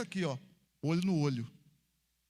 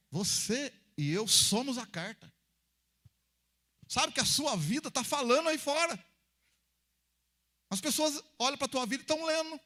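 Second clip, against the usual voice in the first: high, forceful sermon delivery; raised, emphatic preacher voice; preaching; 6 semitones higher, 3 dB louder than usual. Real, not acted. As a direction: proclaim it to the congregation, stretching key words.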